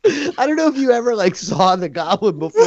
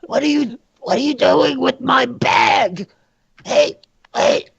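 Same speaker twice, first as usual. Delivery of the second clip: guard yelling; 6 semitones higher than usual. Acted. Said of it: "He points".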